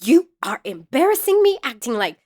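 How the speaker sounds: put-on high, loud scolding of the kids; scolding mother. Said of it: "I definitely was like".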